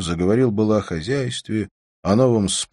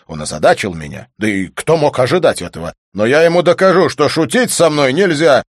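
builds to a much higher, louder furious shout; furious rant; 8 semitones higher, 8 dB louder than usual. Acted. Volyntsev vowing to shoot the philosopher, building fury. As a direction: work yourself into a rage. Raging about duel.

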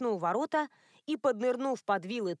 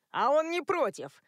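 higher, louder heckling cry; shout from the crowd; 5 semitones higher, 4 dB louder than usual. A narrator's reading. A villager heckling Thomas, shouting it out. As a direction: yell it back at the gate. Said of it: "выкрикнул кто-то".

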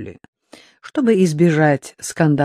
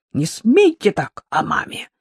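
вякнул; 5 semitones higher than usual. Acted. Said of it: "вякнул Евгений".

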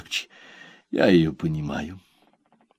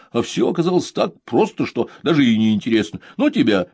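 son trailing off, mock disappointed; a lightly sulky wave-off; 3 semitones higher, 4 dB louder than usual. Son to mother, mock disappointed.

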